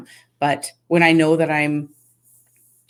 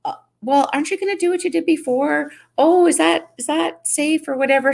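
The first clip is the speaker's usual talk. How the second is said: imitating Janelle; 10 semitones higher than usual. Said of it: "And then Janelle's like".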